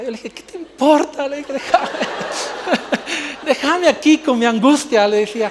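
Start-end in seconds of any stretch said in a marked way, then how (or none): 0.3-1.3 louder, higher, laughing while retelling it; mock tearful snap. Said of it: "yo me puse a llorar". 1.5-5.1 louder, higher, laughing through a hammed-up lament; mock anguish. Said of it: "yo me puse a llorar".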